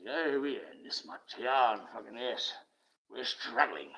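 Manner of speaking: lightly voiced smug rich woman, slow; a hint of a smug boaster; mock rich woman. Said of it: "when you hear a woman speak like that".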